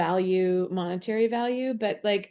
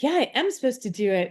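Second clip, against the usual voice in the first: higher, quick imitation of a confident yes; expansive affirmation; 4 semitones higher, faster than usual. Coach mimicking how the client would sound if it felt right, expansive affirmation. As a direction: voice an open, wholehearted acceptance, pitched up. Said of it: "it feels expansive right now".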